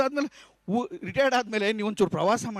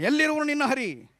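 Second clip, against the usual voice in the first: higher, booming challenge of a tyrant king; demon king taunting; 6 semitones higher than usual. Retold or imitated. Hiranyakashipu mocking young Prahlada about Hari, higher taunting challenge. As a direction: throw the question like a mocking king. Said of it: "ಇವನು ಕೇಳ್ತಾನೆ".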